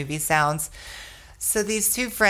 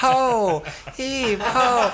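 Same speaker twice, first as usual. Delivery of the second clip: group yell; 5 semitones higher, much slower than usual. Retold or imitated. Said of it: "everybody else yells back".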